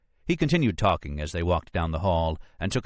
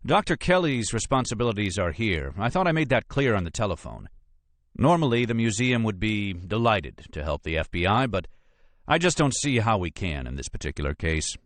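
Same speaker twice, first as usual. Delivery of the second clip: lightly voiced officious lawyer, higher at first; a hint of an unhelpful official, raised pitch; Brisbane, officious; 4 semitones higher than usual. Lawyer declines to help the FBI, lightly voiced and officious.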